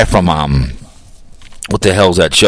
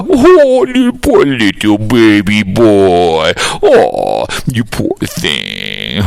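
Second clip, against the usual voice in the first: mock pity; 3 semitones lower, much slower than usual. Mocking the host as baby.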